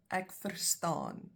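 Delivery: Ek verstaan said slowly, each sound laid out clearly; slow demo. Shown as a demonstration. Teacher showing learners how to say it, slowly. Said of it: "I understand".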